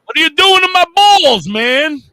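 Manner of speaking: high Irish leprechaun voice. Acted. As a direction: squeal it like a leprechaun. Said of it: "you said that like a leprechaun".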